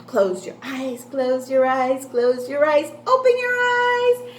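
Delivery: tease, then pop the surprise; playful build. Shown as a demonstration. Game routine with children.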